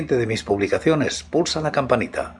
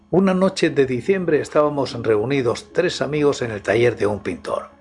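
story narration. Acted. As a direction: set a midnight horror mood. Reads a horror story aloud.

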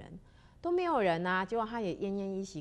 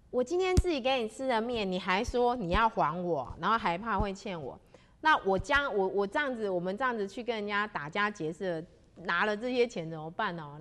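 worried musing; 2 semitones higher, 4 dB louder than usual. Acted. 坏人心里惊慌想.

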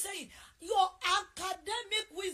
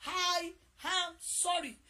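slow sincere apology; 5 dB louder, much slower than usual. Shown as a demonstration. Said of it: "I repeat".

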